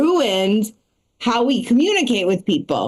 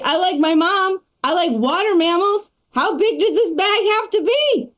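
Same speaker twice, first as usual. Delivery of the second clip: higher-pitched mock protest; mock pleading; 7 semitones higher than usual. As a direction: pitch it up like a silly over-explaining reply. Mocking reply in a comeback.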